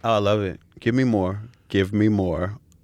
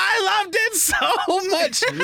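slow, high, swooning gush; much slower than usual. Real, not acted.

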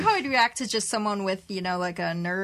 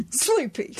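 laughing; 5 semitones higher than usual. Real, not acted. Laughing joke.

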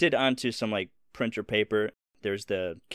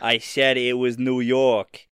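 correcting; 3 semitones higher, 8 dB louder, slower than usual. Real, not acted. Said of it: "The Boston accent".

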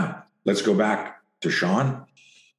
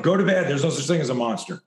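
hammed-up impatient dad; mock dismissive parent; 5 semitones higher, faster than usual. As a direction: shut the kid's fear down.

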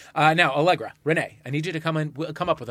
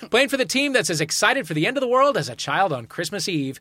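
announcer; 5 semitones higher than usual. Acted. Host introduces contestants.

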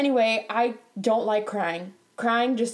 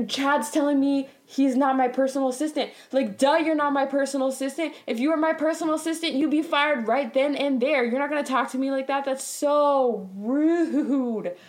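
higher-pitched, scolding an absent coworker; indignant rant; 4 semitones higher than usual. Real, not acted. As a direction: vent in outrage, dragging out the last words.

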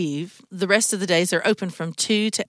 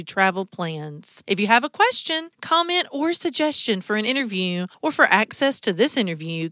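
higher-pitched announcer sign-off; show outro read; 4 semitones higher than usual. Acted. Host signing off Talk Travel, announcer read. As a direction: read it like a lively radio outro.

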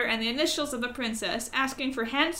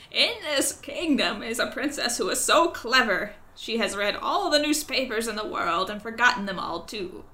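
louder croaky crow storyteller; 4 dB louder than usual. Acted. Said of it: "try to speak in a croaky voice".

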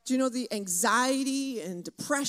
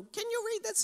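mock border guard; 9 semitones higher, 5 dB quieter than usual. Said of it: "arguing with these border guards".

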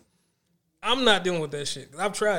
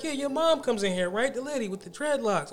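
imitating nail lady; 6 semitones higher than usual. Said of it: "She was like".

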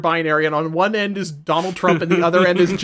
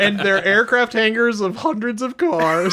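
mock doting wife; 3 semitones higher, 4 dB louder than usual. Wife voice, amused.

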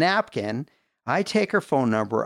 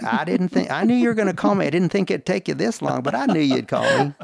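higher, lightly imitated Southern woman; imitated Tennessee accent; 5 semitones higher than usual. Woman taking his late call, in a light Tennessee accent. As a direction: quote her with a touch of Tennessee twang. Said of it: "your accent".

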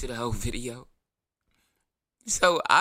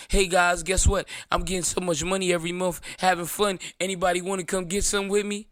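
higher, bright mock-excited vlogger voice; hammed-up party invite, pitched up; mock cheerful bragging; 4 semitones higher than usual. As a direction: spoof a gleeful landlord video. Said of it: "Did you make a video saying".

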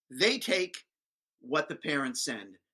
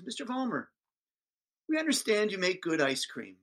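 lightly raised, nice-as-you-please teacher; sweet teacher voice; 4 semitones higher than usual. Retold or imitated. Teacher sweetly addressing the speaker, nice as you please. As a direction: play her sweet and polite.

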